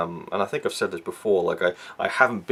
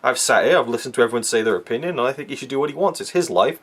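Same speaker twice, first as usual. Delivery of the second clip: higher, quicker retold protest; defensive retort; 3 semitones higher, faster than usual. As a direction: imitate a sister arguing back. Retold quarrel, sister answers back.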